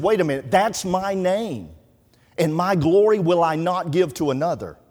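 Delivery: preacher voicing God's firm claim; God declaring. God's words quoted emphatically.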